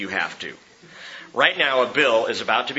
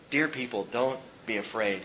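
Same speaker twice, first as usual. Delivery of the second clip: tender appeal; 7 dB quieter than usual. Real, not acted. Tender appeal after climax.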